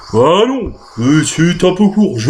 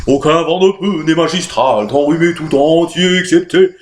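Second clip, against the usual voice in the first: emphatic. Acted.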